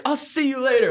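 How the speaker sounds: high, chirpy so-long; mock breezy goodbye. Bidding Captain Lou goodbye, high and chirpy. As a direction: sing it out like a cheery farewell.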